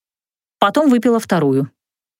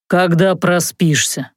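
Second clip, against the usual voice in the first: curt; 3 semitones lower, slower than usual. Acted. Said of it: "отрезал Локи".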